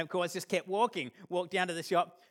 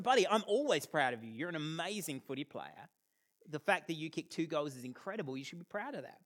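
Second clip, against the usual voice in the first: soft, tender reassurance getting quieter; reassuring; 4 dB quieter than usual. Retold or imitated. Dad kneeling to comfort his son, tender and soft. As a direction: comfort him gently.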